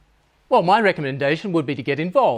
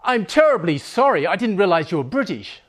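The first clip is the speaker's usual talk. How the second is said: apologetic waiter; 2 semitones higher than usual. Acted. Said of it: "The waiter recognized an accent".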